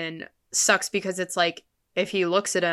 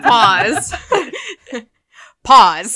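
hold on; 6 semitones higher, 11 dB louder than usual. Real, not acted. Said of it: "Like, hold on".

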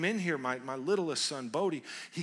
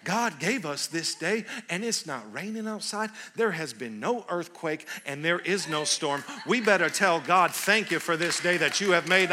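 greeter's preaching; 6 dB louder than usual. Retold or imitated. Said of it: "This is what she said to me".

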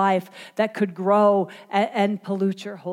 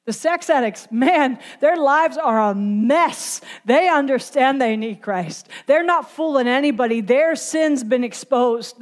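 emphatic, rhythmic sermon delivery; impassioned preaching; 3 semitones higher than usual. Real, not acted. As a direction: preach it with rising urgency. Preaches on exposed sinners.

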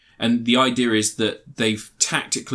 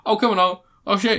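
eager goofy voice; 8 semitones higher than usual. Retold or imitated. Retelling comedy scene, character voice.

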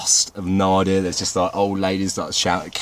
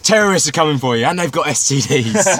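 dramatic announcer; 6 semitones higher than usual. Pretend. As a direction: boom it like a mock news alarm. Mock propaganda news warning.

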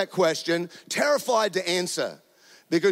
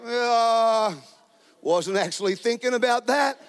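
reluctant husband reply; 4 semitones higher than usual. Retold or imitated. Reluctant husband's acted reply to wife.

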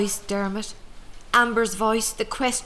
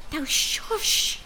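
breathy whispered order; whispered shush; 8 semitones higher than usual. Acted. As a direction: silence her firmly under your breath. Hushing the maid again.

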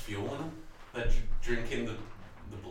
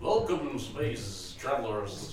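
Dracula voice; much slower than usual. Acted. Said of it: "He sounds like fucking Dracula".

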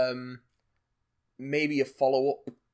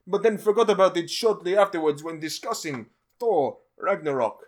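put-on Russian accent; 3 semitones higher than usual. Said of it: "Colossus from Deadpool".

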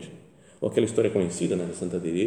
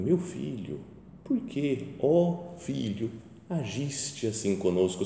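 softer and slow, a mother's hurt question; mother's gentle reproach; 4 dB quieter, much slower than usual. Retold or imitated. Mary gently scolding her son Jesus, soft and slow. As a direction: ask it tenderly, drawn out. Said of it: "Dá uma bronca de mãe".

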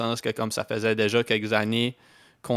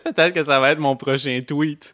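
amused; 4 semitones higher, 5 dB louder than usual. Real, not acted. Joking, laughing.

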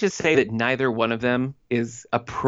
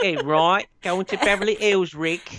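a higher, hammed-up fake French accent; mock Brenda's terrible French accent, lightly; mock bad French accent; 7 semitones higher, slower than usual. Podcast host mocking Brenda's fake French accent to Rick. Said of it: "she's back in her French accent".

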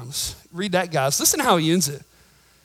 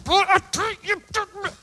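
higher, teeth-clenched mom voice; mom through gritted teeth; 13 semitones higher than usual. Retold or imitated. Pastor imitating his mom speaking through clenched teeth. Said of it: "special voice and language that she could speak through her teeth".

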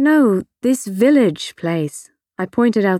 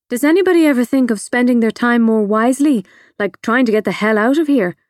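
quick, smart-alecky question; 2 semitones higher, faster than usual. Acted. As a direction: toss it off fast and sardonic. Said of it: "I asked smartly".

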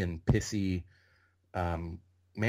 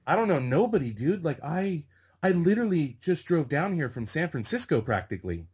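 high-pitched, imitating a flustered newcomer; defensive protest; 6 semitones higher than usual. Newcomer answering an extra in his face, high defensive protest.

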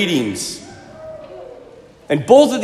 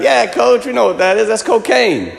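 cocky, higher-pitched jokey players; joking players; 5 semitones higher than usual. Retold or imitated. Players joking with their coach in the locker room, jokey. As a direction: toss it off like joking teammates. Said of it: "they're kinda joking and hitting each other".

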